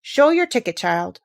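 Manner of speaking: stern guard. Acted. Guard scolding Alice.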